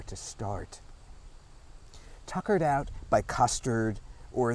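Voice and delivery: measured poetry recital, phrase by phrase; deliberate literary reading with falling line ends; poem reading. Acted. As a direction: read it as a poem, pausing between images. Reads second poem aloud.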